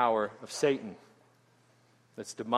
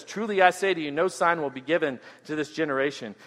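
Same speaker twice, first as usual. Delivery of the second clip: spoken firmly. Shown as a demonstration. Jesus refusing the Pharisees a sign, firm and solemn. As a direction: lay it down firmly like a final verdict. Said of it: "He speaks firmly here when he says".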